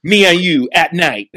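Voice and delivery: tiny challenger voice; wrestling promo. Retold or imitated. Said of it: "that's her whole promo".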